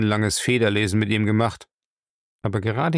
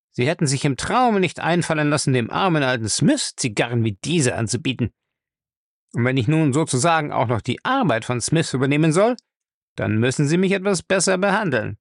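pitched-up cheeky complaint; reproachful; 4 semitones higher than usual. Acted. Thief demands better treatment from his master, reproachful. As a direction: chide the boss like an equal. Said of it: "sagte er vorwurfsvoll".

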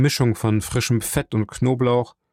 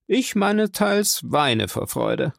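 mock tearful; 9 semitones higher, slower than usual. A narrator's reading. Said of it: "sagte Kaderus pathetisch".

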